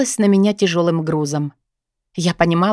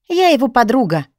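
higher, smiling voice; silly fake smile; 4 semitones higher than usual. Heroine answers the policeman, fake smile. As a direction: hide fear behind a grin. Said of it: "с той же дурацкой улыбочкой".

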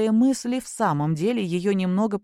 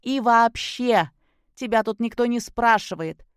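spiteful; 4 semitones higher than usual. Acted. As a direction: narrow your eyes and spit it. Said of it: "зло сощурив глаза".

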